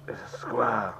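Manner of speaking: whispered, hushed and airy. Real, not acted. Player reacting to the screen, whispering in awe.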